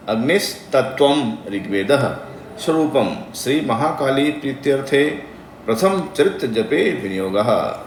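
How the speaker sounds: measured, chant-like recitation of a mantra; slow devotional Sanskrit intoning. Shown as a demonstration. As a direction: intone each syllable carefully like a priest. Recites the full viniyoga line.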